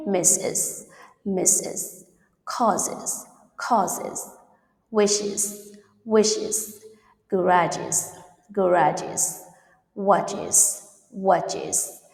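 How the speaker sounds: each plural such as "misses", "wishes" ending IZ. Shown as a demonstration. Teacher gives examples for students, careful IZ endings on "watches". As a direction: model each word separately with a clear IZ syllable. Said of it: "We have pronounce is".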